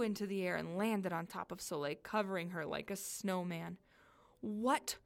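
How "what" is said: half-hearted yell, drawn out slowly; mildly yelled, startled question. Acted. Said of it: "she yelled".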